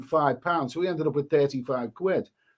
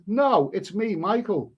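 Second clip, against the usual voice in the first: put-on higher-pitched posh English accent; 3 semitones higher, slower than usual. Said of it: "He put on a posh English accent".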